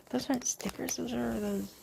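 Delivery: high, soft oohs; excited hushed ooh; delighted cooing. Real, not acted. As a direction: coo over something pretty. Cooing over pretty nail items.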